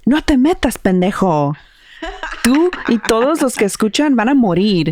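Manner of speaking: hammed-up possessed yell; demon yell. The demon threatening the host and all listeners, mock yell.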